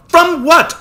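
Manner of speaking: put-on high, loud pleading girl's voice, slow at the end; distraught girl. A narrator's reading. Sister pleads with her brother, distraught girl. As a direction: plead with him near tears.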